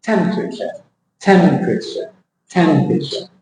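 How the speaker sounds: temperature with TEM up front and a squashed tail; temperature, front-weighted and falling; stress on first syllable. Shown as a demonstration. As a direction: hit TEM, let the rest of temperature fall. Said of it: "So you go".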